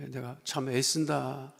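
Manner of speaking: ordinary talk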